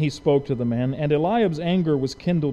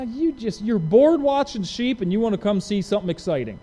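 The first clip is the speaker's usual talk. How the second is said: mocking, taunting accusation; a touch of a jeering older sibling; sneering big brother; 3 semitones higher than usual. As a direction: belittle the little brother. Eliab accusing David.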